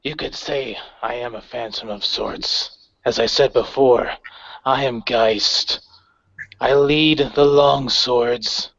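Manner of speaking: measured, cold villain voice; lightly voiced commander threatening politely; understated menace from a ghostly leader; calm menacing leader. GM voices Geist.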